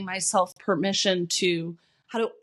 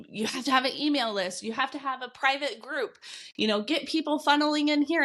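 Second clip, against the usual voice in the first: higher-pitched mock list of rules; mimicked nagging advice; 6 semitones higher than usual. Coach mimicking online marketing noise, higher nagging mimicry. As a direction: rattle off the shoulds in a higher mimicking voice.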